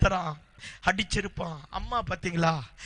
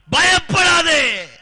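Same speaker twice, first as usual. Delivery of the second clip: "பயப்படாதே" drawn out slowly, loud and higher; loud "do not fear"; 9 semitones higher, 10 dB louder, much slower than usual. Acted. God cries to Hagar "பயப்படாதே", slow ringing and loud. God's climactic comfort.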